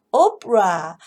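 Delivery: "opera" as OP-ruh, middle vowel almost gone; opera with schwa. Shown as a demonstration. Teacher showing the near-silent middle of "opera". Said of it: "소리가 거의 들리질 않습니다".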